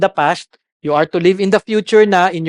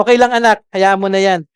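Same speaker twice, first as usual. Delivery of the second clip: gentle reply. Retold or imitated. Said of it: "Pag may nababasag siya".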